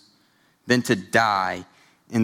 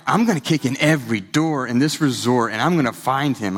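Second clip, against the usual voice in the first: retold anger. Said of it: "I'm getting mad".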